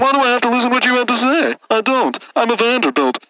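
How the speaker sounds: haughty rich heir. Acted. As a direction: brush him off as beneath you. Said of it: "Linus Vanderbilt the fourth".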